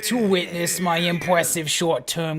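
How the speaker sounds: villain voice. Acted. Reading villain dialogue.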